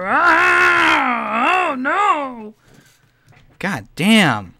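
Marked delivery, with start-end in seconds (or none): 0.1-2.5 mock driver cry. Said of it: "he's like".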